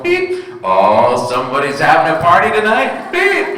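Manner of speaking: beep, then chat like a nosy cashier; chirpy cashier guessing. Retold or imitated. Cashier guessing about your groceries, chirpy with beeps. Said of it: "they might go".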